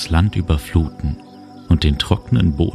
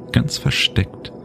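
whisper; 9 semitones higher, slower than usual. Acted. Secret hidden path revealed.

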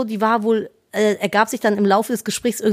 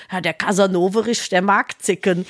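put-on lower doting old lady; 4 semitones lower than usual. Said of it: "sagt sie so über ihren Hund".

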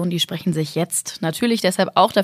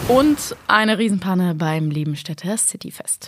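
hoarse, breathy headline read; raspy voice. Real, not acted. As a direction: rasp through the headline. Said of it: "mit deiner Reibeisenstimme". (heiser gelesene Schlagzeile)

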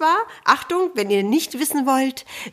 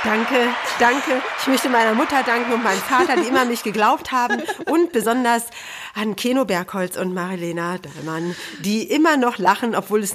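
award speech. Pretend. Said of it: "was ich hier gerade mache".

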